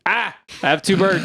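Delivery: high surprised yelp, bird on each hand; startled. Retold or imitated. Retelling a second bird landing, high surprised yelp. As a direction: squeal it out in alarm.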